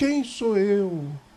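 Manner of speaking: soft, whiny, limp voice. Retelling how a guy answers when invited, imitating a whiny, limp voice. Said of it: "aquela voz lamuriosa, com aquela voz mole".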